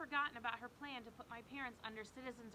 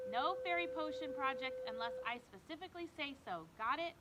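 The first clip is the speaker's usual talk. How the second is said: stern scolding; 3 semitones higher, 5 dB louder than usual. Acted. Mom scolds Zoe.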